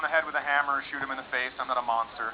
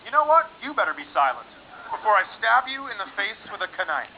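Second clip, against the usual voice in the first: mock threat; 4 semitones higher than usual. Angry threat comeback.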